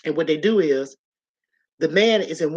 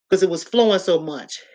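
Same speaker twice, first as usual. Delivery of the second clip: gasp for breath. Retold or imitated. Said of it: "I couldn't almost breathe".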